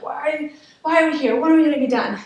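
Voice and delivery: imitating an impatient, fed-up student; mock frustration. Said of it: "I start to get mad and angry".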